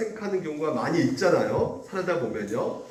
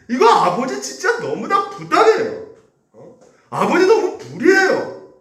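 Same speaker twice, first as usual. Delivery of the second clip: much higher, louder furious accusation; angry outburst; 8 semitones higher, 5 dB louder than usual. Retold or imitated. Older son insulting his father, loud furious accusation. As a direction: cry out that he was wronged. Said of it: "모욕하면서 분노하고 있는 것이에요".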